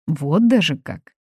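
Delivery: slow, mildly surprised query. A narrator's reading. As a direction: raise a doubtful eyebrow. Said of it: "удивилась Аля".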